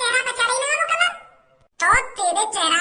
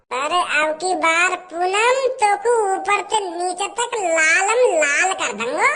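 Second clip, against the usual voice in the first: slow, lower teasing threat; 5 semitones lower, slower than usual. Acted. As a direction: draw out the menace playfully. Threatens to colour her. (धीमी, चिढ़ाती धमकी)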